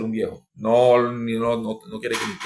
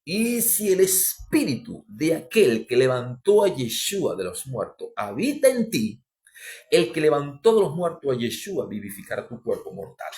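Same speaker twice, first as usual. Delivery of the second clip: solemn scripture reading; 2 semitones higher than usual. Acted. Reading scripture slowly, emphatically. (lectura solemne y pausada)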